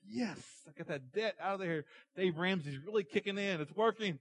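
excited servant. Acted. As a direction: celebrate to yourself as the forgiven debtor. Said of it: "He was so excited".

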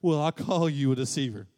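God's proclamation. Acted. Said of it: "And God says".

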